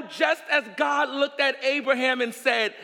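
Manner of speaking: normal talking voice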